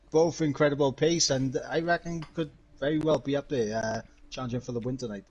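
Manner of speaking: put-on commentator with a Welsh accent. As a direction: chat in a lilting Welsh accent. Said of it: "Mister Iverman Mike with his Welsh accent".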